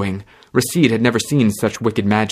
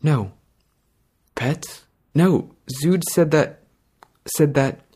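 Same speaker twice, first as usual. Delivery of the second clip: half asleep; 6 semitones higher, slower than usual. Acted. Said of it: "The girl sounded half asleep".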